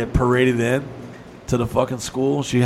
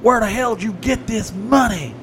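evil stepmother; 9 semitones higher than usual. Retold or imitated. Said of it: "my evil stepmother screaming".

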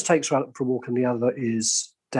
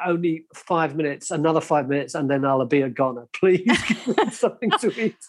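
pleading dog voice; 3 semitones higher than usual. Pretend. Dog begging voiced by owner.

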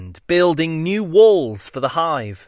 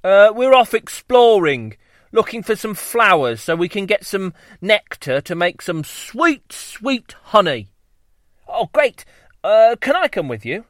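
high bee voices; 4 semitones higher than usual. Acted. Bees talk in dialogue.

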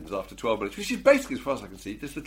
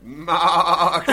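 sheep bleat; 3 semitones higher, 9 dB louder than usual. Retold or imitated. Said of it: "Remembering it".

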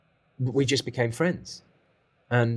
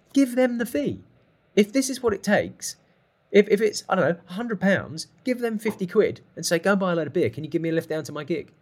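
raised, exasperated imitated instructions; furious insistence; 8 semitones higher, 4 dB louder than usual. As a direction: act out a mentor forcefully spelling it out. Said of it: "Glenn was furious".

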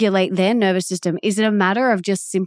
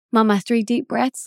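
put-on light little girl voice, a bit higher; imitating daughter; 6 semitones higher than usual. Mother quoting daughter reminding her to breathe, lightly voiced child. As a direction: playfully mimic a small child. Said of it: "she'll just, like, say to me".

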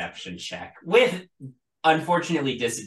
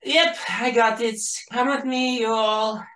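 high, louder guard voice; the other guard; 12 semitones higher, 7 dB louder than usual. Acted. Guard offering to escort the party, high loud voice. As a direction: pipe up as an obliging guard. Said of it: "the other guard says".

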